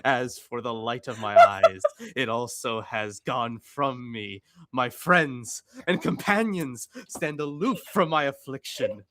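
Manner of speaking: mock preacher reading scripture; hammed-up sermon reading. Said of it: "With your preacher voice?".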